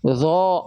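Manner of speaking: "zo" with lips pushed out into a full O; over-round "zo" through pouted lips; wrong pouted thickness. Shown as a demonstration. Teacher shows students what to avoid, pouted O. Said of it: "Ah, nggak begitu".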